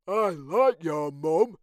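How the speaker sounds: high, light character voice; Norman voice. Acted. Norman agreeing to the sleepover, high and bright. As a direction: lift into a small creature's voice.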